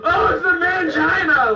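mock horror.

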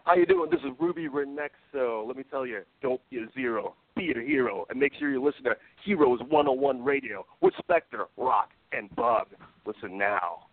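bold radio announcer read. Acted. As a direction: sell it like a station bumper. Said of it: "that announcer voice that I just put on".

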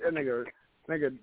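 ordinary talk, nothing marked

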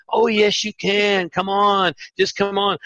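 encouraging. Retold or imitated. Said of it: "they'd be like".

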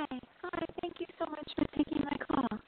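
choppy phone line, words dropping out; bad connection, cut-off endings; cutting out. Real, not acted. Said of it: "You're cutting out a little bit".

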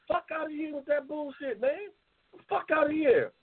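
angry outburst. Real, not acted. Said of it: "I come out my fucking character".

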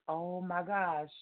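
slow, soft star-struck murmur; hushed awe. Retold or imitated. Fan recalling when she saw the author, slow hushed awe. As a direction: draw it out softly in retold amazement.

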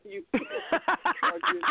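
high, loud burst of laughter through the words; laughing hard. Real, not acted. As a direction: break up laughing mid-sentence. Laughing mid-sentence.

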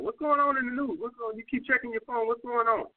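sarcastic jab at a woman checking her phone. Shown as a demonstration. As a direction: needle her about the phone, tongue in cheek. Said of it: "Just say something sarcastic".

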